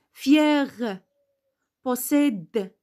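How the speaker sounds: Fier and Possède ending on released consonants; mute final E. Shown as a demonstration. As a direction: linger on the è, then just release the r or d. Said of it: "Parce qu'on a un E muet".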